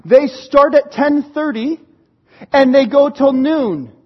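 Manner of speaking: slow, pointed mock protest; exasperated complaint. Son argues with dad over service times, exasperated. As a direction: spell out the grievance slowly.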